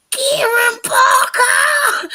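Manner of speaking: over-egg the Kiwi until it breaks; overdone Kiwi accent. Retold or imitated. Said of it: "didn't even sound like a fucking Kiwi".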